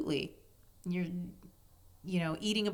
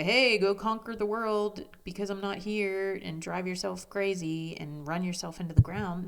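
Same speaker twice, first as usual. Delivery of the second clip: mock pushy urging; 2 semitones higher, 5 dB louder than usual. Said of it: "They wouldn't say".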